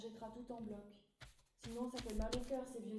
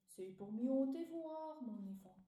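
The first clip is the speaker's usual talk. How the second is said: slow, big wolf-grandma voice; hammed-up fake grandmother, slow; 2 semitones higher, 4 dB louder, slower than usual. Wolf disguised as grandmother answering the girl, slow big voice. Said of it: "Avec une grosse voix".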